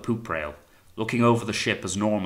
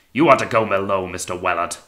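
loud, commanding dismissal; roared order; 8 dB louder than usual. A narrator's reading. Captain ordering the volunteer below, roaring. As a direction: open loud, settle on the name. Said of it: "roared the captain".

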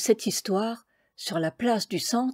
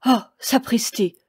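a read-aloud cry of dismay, a bit louder; sudden vexed exclamation, lightly voiced; cry of disappointment; 3 semitones higher, 5 dB louder than usual. A narrator's reading. Roofer realizes his mistake to the baker: dismayed cry. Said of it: "un cri de désappointement".

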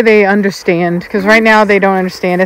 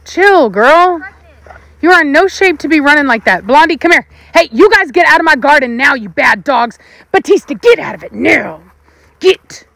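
higher, firm calling voice; calling the dogs; 5 semitones higher than usual. Real, not acted. Owner calling the dogs out of her garden, firm and raised.

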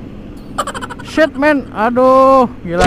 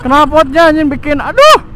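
loud, pained griping; raised complaining voice; 5 semitones higher, 3 dB louder than usual. Real, not acted. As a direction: complain loudly over traffic. Choking on exhaust fumes.

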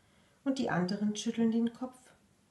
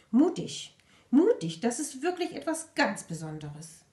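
approving; 3 semitones higher, 3 dB louder than usual. Acted. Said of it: "nickt die Schnecke anerkennend".

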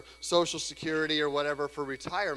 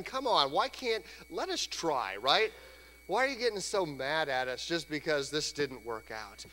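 higher, pleading, a bit defensive; whiny disciples; 4 semitones higher than usual. Retold or imitated. Disciples protesting to an annoyed Jesus, higher and whiny. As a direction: protest like sulky students caught out. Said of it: "You can almost hear 'em".

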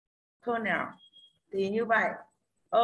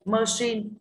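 "Machine" stressed on CHINE; light MA, strong CHINE in "Machine"; stress on second syllable; 2 semitones higher than usual. Shown as a demonstration. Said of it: "rơi vào âm tiết thứ hai là shin". (nhấn âm tiết hai "Machine")

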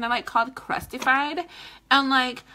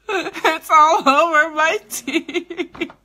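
slow, high whiny complaint; mock whine; 4 semitones higher, 7 dB louder, much slower than usual. Lipstick on her teeth, she whines slowly. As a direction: drag it out like a sad whine.

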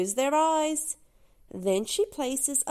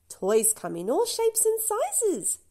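gentle; 8 semitones higher than usual. Acted. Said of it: "Doc says gently".

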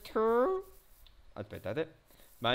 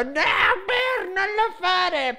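high, loud mock cry of viewers; imitating viewers' yell; 5 dB louder, much slower than usual. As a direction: play the horrified viewers. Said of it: "ha urlato".

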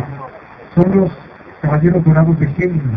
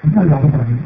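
surprised; 5 semitones lower, 4 dB louder than usual. Retold or imitated. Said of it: "fue así de".

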